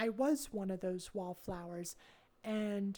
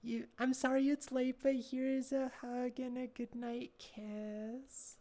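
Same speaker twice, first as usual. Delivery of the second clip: goodnight kiss; 3 semitones higher than usual. Real, not acted. Tender goodnight to viewer.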